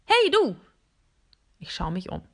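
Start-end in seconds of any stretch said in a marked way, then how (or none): 0.1-0.6 much higher, louder call. Acted. A device calling out to the robot. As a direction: call across the room. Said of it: "ruft eine Stimme".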